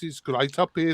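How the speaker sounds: quick taste of Brummie; Birmingham accent. Shown as a demonstration. Showing hosts the accent half an hour away, Brummie. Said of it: "because that's Birmingham".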